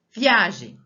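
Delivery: viAgem loud, punched on A; stronger stressed syllable. Shown as a demonstration. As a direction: hit the A in Viagem hard. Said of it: "Eu falo ela mais forte".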